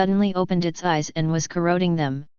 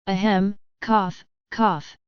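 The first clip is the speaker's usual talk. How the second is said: weak cough; slower than usual. Acted. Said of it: "opened his eyes weakly".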